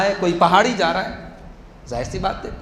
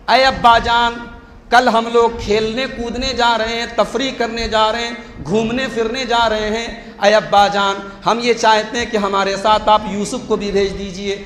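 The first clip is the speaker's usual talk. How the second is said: wheedling sons; 3 semitones higher, 3 dB louder than usual. Retold or imitated. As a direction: sweet-talk the father slyly. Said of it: "बात करने का अंदाज देखिए".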